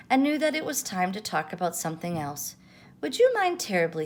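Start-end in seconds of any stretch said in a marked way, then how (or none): 3.0-4.0 high, courteous little request; polite asking. A narrator's reading. Roo politely changing the subject with Pooh. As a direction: ask it ever so politely. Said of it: "he asked politely".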